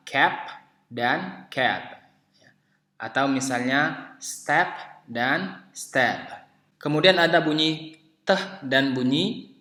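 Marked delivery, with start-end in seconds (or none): 0.1-2.1 "cap" with final p, then "cap" with voiced final b; two separated words, cap then cab; contrasting final sounds. Shown as a demonstration. Teacher contrasting p and b, careful word pair. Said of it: "jadi kita membedakan antara". 4.2-6.2 "step" ending in p, then "step" ending in voiced b; slow separated pair, step then steb; contrasting final sounds. Shown as a demonstration. Teacher contrasting p and b, slow word pair. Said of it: "kita membedakan antara".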